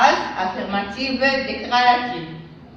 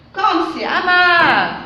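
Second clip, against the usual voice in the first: high, slow exclaiming voice; exclamation; 5 semitones higher, 5 dB louder than usual. Shown as a demonstration. Teacher models an exclamation, high and slow. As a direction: marvel at how bitter it is. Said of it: "ce sont d'exclamations".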